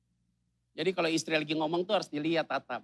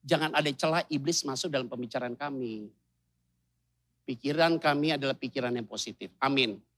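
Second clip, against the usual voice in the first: husband's prayer; 3 semitones lower than usual. Retold or imitated. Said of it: "suaminya kalau berdoa kan pasti to the point".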